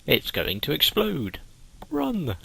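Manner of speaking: rising panic, last word yelled high; hammed-up alarm, run for it; mock panic yell; panicked shout. Reading game character's panicked lines.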